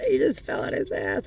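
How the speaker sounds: high, giggly mock commentary; laughing while pointing it out. Mocking a friend who just fell, words laughed out high. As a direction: laugh through the words at someone's fall. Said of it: "I might laugh for a minute. One of those".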